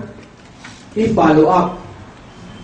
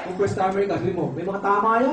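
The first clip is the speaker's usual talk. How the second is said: much softer, confiding to the crowd; quiet conspiratorial aside; hushed aside; 10 dB quieter than usual. Acted. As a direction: drop your voice like a secret. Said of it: "hushed aside to audience".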